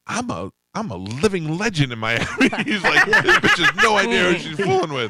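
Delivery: high, loud, cracking up mid-sentence; laughing retelling of a boast; laughing through quote. Retold or imitated. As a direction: barely hold the quote together. Laughing while quoting Warren.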